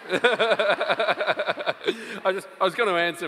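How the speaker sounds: laughing it out at a colleague. Real, not acted.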